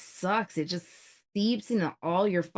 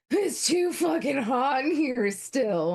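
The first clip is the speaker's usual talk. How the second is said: annoyed shout; 6 semitones higher than usual. Retold or imitated. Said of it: "Tim's just like".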